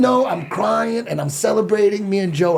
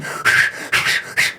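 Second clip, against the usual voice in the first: sharp sniffing breaths. Retold or imitated. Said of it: "He's doing all this crazy breathing".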